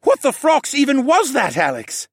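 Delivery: high, loud bewildered question; excited, incredulous outburst; amazed exclamation. Acted. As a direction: demand an answer, still worked up. Horace still exclaiming in amazement.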